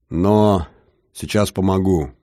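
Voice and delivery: put-on heavy Russian accent, booming. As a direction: rumble it with a thick Russian accent. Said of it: "гулкий голос с жутким русским акцентом".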